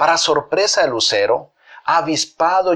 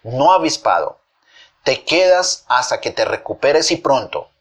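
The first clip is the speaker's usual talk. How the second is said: understated firm refusal; energetic command. Acted. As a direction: put your foot down as a mother. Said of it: "su mami dijo enérgicamente".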